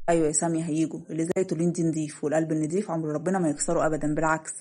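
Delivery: a hint of a steady older man; lightly voiced reassuring father. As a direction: reassure his wife, a touch low.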